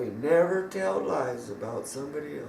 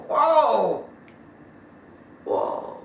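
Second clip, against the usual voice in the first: heartbroken; 4 semitones higher than usual. A narrator's reading. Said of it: "so heartbroken and sad".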